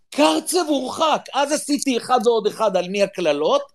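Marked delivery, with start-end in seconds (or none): 0.1-1.2 higher, drawn-out mock call; retold screech. Son calls news to dad from the shower, mild mock screech. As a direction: imitate a mild screech from another room. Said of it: "מהמקלחת צווח לי".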